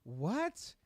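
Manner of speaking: slow, disbelieving "offensive offsides?"; incredulous Mahomes. Retold or imitated. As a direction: voice his stunned inner thought, stretched out. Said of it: "Mahomes walking to the sideline thinking".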